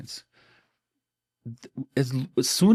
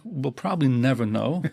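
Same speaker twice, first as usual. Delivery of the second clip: laughing. Real, not acted.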